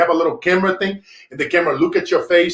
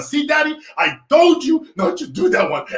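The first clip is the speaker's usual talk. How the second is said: scolding daughter; 11 semitones higher than usual. Retold or imitated. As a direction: shout it like a smug little girl. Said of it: "And Isabella".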